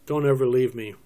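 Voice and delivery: trying not to tear up. Acted. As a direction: plead strongly, holding back tears. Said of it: "I'll try to do this without, uh, tearing up".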